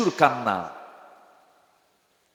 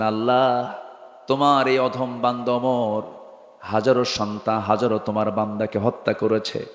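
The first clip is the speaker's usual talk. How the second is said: retold tearful prayer; 2 semitones lower than usual. Omar prostrate, confessing to Allah, retold tearful prayer. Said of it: "কান্নাকাটি শুরু করে দিলেন".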